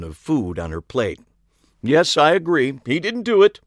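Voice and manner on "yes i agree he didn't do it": very high, loud airy lilt; chirpy psychic pronouncement; high girlish voice. A narrator's reading. Ariana voiced.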